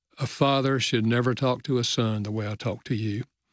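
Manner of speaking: plain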